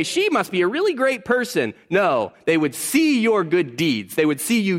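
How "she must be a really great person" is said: mock admiration.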